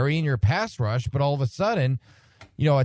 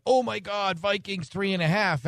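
mock excited bettor; 9 semitones higher than usual.

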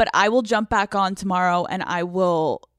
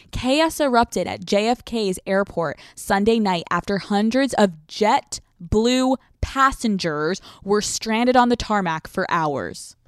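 reading the headline aloud; slower than usual. Shown as a demonstration. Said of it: "Let me read you the headline".

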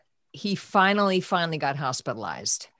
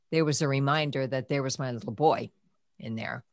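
choked up; 3 dB quieter, faster than usual. Retold or imitated. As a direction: voice sinking to a whisper. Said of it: "collapsed against the wall sobbing".

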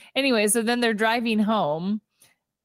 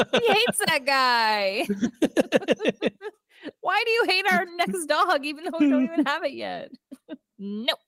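words squeezed out through giggles; laughing; 6 semitones higher than usual. Real, not acted. Host laughing at her co-host's dog name joke. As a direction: try to talk while cracking up.

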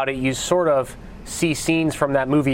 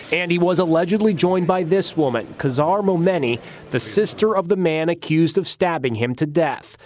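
punchy tabloid news read; tabloid tv host. Acted. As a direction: sell the scandal like a tabloid host. Tabloid crime report read.

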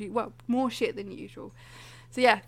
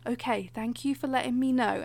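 calm, careful, soothing tone; soothing nurse voice. Retold or imitated. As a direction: settle an anxious patient. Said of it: "she was doing the".

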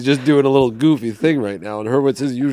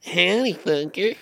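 lightly higher cowboy howdy; a quick goofy put-on greeting; 4 semitones higher, 4 dB quieter than usual. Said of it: "Was that voice better".

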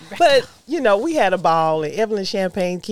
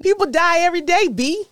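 movie quote; 9 semitones higher than usual. Retold or imitated. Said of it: "That came from Belly".

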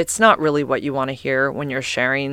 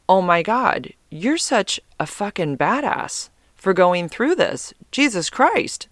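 higher, excited gush of admiration; imagined gushing praise; 4 semitones higher than usual. Pretend. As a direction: play the impressed friend, all in awe. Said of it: "I want him to go".

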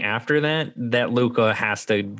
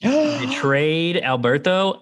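high, slow and stunned; shocked disbelief; 8 semitones higher, much slower than usual. Real, not acted. Telling friends the betrayal scene, stunned and high. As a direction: drag out the shock, pitched up high. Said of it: "I gasped out loud".

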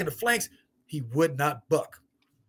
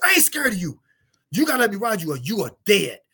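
retold stern warning; 7 semitones higher, 6 dB louder than usual. Confronting the wild horse.

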